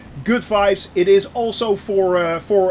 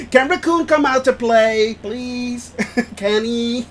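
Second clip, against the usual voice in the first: higher, lightly voiced kid asking; pleading child; 3 semitones higher, slower than usual. Streamer jokes as a kid asking for a friend to play, mock pleading. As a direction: beg playfully through giggles, like a kid. Playing a child begging for playmate.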